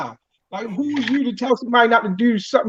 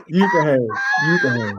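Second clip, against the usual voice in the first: laughing, blushing; 7 semitones lower than usual. Real, not acted. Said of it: "I made you blush".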